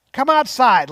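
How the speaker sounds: loud, forceful command to step outside; raging husband. Retold or imitated. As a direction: bark it at her, barely holding in the rage. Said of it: "his skin flushed with rage".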